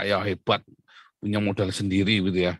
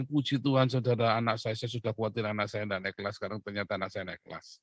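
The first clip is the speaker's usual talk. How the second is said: mock testimony; 9 dB quieter than usual.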